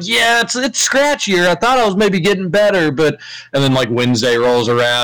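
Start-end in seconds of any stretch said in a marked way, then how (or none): 0.0-2.9 high, whiny sick voice; mock sick whine. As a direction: whine like you're faking a cold. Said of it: "he was like".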